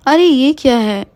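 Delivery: high, startled woman's voice; alarmed young woman. Acted. Waking Mona startled by smoke in her bedroom, high alarm. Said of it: "Mona उठती है और कहती है".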